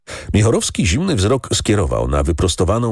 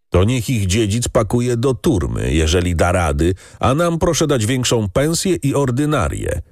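mildly raised crowd shout; shouting servants; 4 semitones higher than usual. Acted. Servants shouting demands at the count, mildly raised. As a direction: call out your demands to the count. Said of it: "krzyknęło parę osób".

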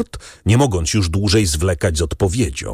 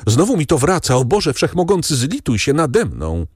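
high-pitched plea for mercy, dragged out at the end; distressed cry; 7 semitones higher than usual. A narrator's reading. Stricken servant begs God for pity, crying out in distress. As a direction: cry out to the doctor as an attack returns. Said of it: "zawołał Barrois".

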